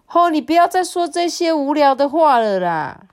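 high-pitched mild scolding; mildly fed-up mum; annoyed mother. A narrator's reading. Mother scolds father, then glares.

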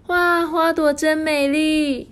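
high, slow, marvelling wow; delighted princess. A narrator's reading. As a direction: gush over the flowers like a princess. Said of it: "她说".

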